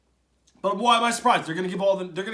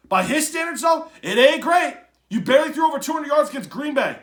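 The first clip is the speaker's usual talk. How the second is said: louder and higher, pressing the point; heated emphasis; 7 semitones higher, 7 dB louder than usual. Real, not acted. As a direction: drive it home, getting worked up. Rising rant on Mahomes' stats.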